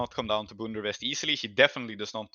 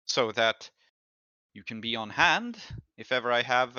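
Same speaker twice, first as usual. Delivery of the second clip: lightly voiced rich patron, smooth and condescending; a hint of a gracious but possessive noblewoman; Tamira, a wealthy noblewoman. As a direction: thank him as if doing him a favour. GM continues Tamira's reply.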